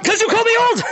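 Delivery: high-pitched taunting cry; playful indignation. Real, not acted. Payback while chasing a player.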